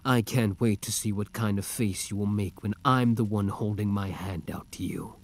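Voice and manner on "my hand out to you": soft unvoiced whisper at the end; whispered taunt. Villain to the hero, whispering a promise. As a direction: let the line sink into a whisper.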